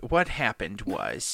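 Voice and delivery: slow, stretched storyteller's lead-in; drawn-out opener. Real, not acted. Storyteller starting a party tale, drawn out. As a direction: stretch the words out before the tale. Storyteller drags out his opening phrase.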